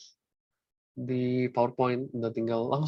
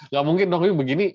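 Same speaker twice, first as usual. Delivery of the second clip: emphatic no; 3 semitones higher, 6 dB louder, faster than usual. Real, not acted. Teacher rejecting a wrong graph.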